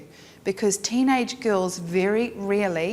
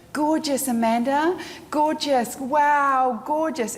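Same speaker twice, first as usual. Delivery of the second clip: high, louder, over-the-top gushing praise; fake gushing; 6 semitones higher, 3 dB louder, slower than usual. Shown as a demonstration. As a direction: rattle off empty flattery, loud and high. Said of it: "It just sounds like crap, and it's not real".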